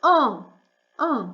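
en said as a nasal vowel with no N sound. Shown as a demonstration. A teacher pointing out the nasal vowel in en. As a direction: give en a clean nasal vowel. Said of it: "фонеми назальної".

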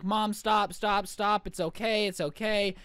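mildly pleading mock-upset child; a touch of whiny pleading; imitated crying kid. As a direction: lightly act an upset kid begging mom. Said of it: "the poor kid is crying at this point".

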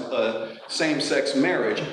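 slow, with marriage leaned on and falling; stress on marriage. Real, not acted. Lecturer to students, stressing marriage over civil unions. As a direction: draw out the phrase and weight marriage. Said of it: "I emphasize the word marriage".

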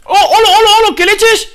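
loud high panicked greeting; startled exclamation. Real, not acted. Gamer suddenly facing the dragon, high startled shouting. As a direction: shout in shock.

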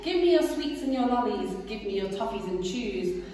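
loud swaggering highway robber; boastful rat. Acted. Rat demanding the rabbit's cakes, swaggering. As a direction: demand it like a bully.

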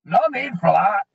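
lightly voiced frightened dwarf; mild stammer. A narrator's reading. Dwarf pleading with the goblin holding a fireball, a touch of stammer. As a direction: stammer it out a little, backing off. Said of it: "he stammered".

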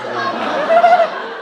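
very slow, stretched-out um with a laugh; drawn-out um. Pretend. Comedian stalling before punchline, stretched-out um. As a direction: drag the um out, teasing. Comic search for words.

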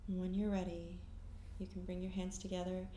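calm meditation guide, long pauses between phrases; guided meditation. Acted. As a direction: guide them gently inward, leaving silence after each phrase.

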